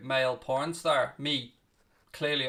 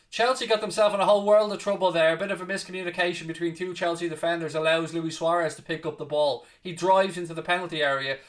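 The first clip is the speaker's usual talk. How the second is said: excited commentary; 4 dB louder than usual. Acted. Calling Suarez's run into the box, rising excited commentary. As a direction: lift the call as danger grows.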